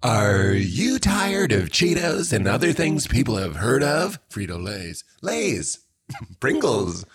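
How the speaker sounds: hyped retro TV ad read; commercial announcer voice. Pretend. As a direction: sell it like an eighties commercial. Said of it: "What does that sound like?".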